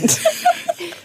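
high laugh breaking out; laughter bursting through. Real, not acted. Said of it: "Bitte, das ist gemein". (lautes Auflachen)

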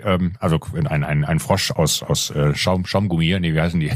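talking around a gummy candy; mouth full. Real, not acted. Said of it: "ich hab mir gerade so einen kleinen Frosch reingesteckt".

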